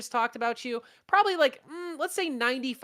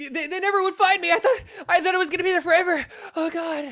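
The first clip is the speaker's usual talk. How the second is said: laughing; 7 semitones higher, 7 dB louder than usual. Real, not acted. Laughing recalling childhood game.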